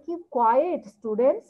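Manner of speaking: slow stretched "quiet" with a rising end; teacher telling students to keep quiet. Retold or imitated. Teacher to students: long, rising "quiet". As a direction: hush the class, stretching "quiet". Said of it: "টিচাররা বলে".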